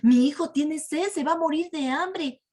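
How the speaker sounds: lightly acted parent's lament; complaining. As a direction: play an indignant complainer. Acting out the complaining Israelites.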